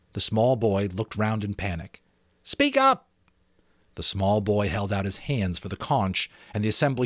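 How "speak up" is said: put-on lightly raised boyish voice, pleased; a schoolboy showing off his island; Ralph, excited about the island; boy Ralph, eager. Ralph urging.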